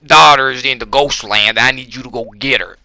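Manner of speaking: lightly acted boss giving orders; mock movie boss. Movie boss ordering Cage to rescue his daughter, lightly acted commanding voice. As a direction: put on a slightly forceful commanding voice. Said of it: "he's like".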